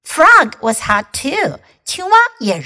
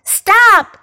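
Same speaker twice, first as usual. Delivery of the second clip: yelled; 9 semitones higher, 6 dB louder than usual. Acted. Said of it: "yelled Pig and Goat and Mouse".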